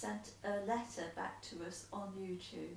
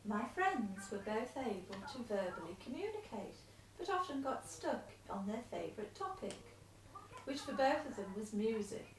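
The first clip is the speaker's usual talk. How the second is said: letter read aloud. Acted. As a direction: read the letter out steadily to him.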